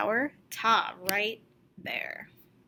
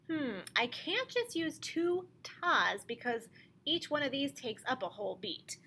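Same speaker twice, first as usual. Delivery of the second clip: ordinary talk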